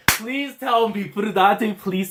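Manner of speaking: high, loud, drawn-out begging; excited pleading. Real, not acted. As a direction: beg the author with rising excitement. Begs the author for more story.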